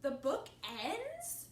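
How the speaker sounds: loud, rising, stretched-out question; surprised. A narrator's reading. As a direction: echo it in storybook disbelief. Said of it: "Was he surprised by that?".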